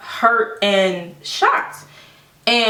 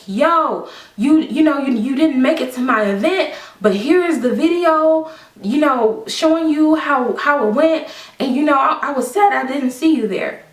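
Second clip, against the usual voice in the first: higher voice imitating a chummy friend; mock friendly message; 4 semitones higher than usual. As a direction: act out her casual follow-up, pitched up.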